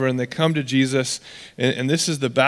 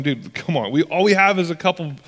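sarcastic complaint that builds higher and faster; mock sarcastic; 4 semitones higher than usual. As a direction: play the exasperated disciple, whining up toward the end. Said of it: "the disciples respond sarcastically".

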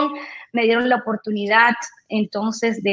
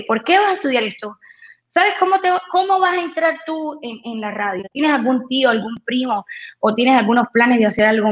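harsh teacher. Retold or imitated. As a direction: lightly voice the doubting teacher. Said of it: "fue muy duro conmigo y me dijo". (un leve tono de maestro severo)

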